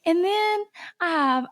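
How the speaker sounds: normal talking voice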